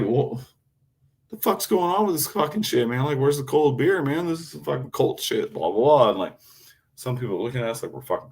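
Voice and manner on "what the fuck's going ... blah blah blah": high, mock-outraged ranting; acting the fool. Complaining to shoppers about warm beer, high mock rant. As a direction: rant like a rowdy tourist. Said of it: "act fool".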